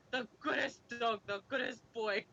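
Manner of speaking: badly faked English accent; loose, half-working English accent. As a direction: try a rough Cockney English accent. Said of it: "It's a bad English accent".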